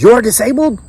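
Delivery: high-pitched mimicked Filipino accent. Doctor questioning a veteran's disability, mimicked Filipino accent. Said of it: "I'm doing my best to mimic it".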